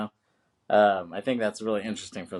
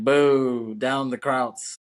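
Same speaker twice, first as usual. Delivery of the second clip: mock jeer; 3 semitones higher, 5 dB louder, much slower than usual. Acting out her jeer.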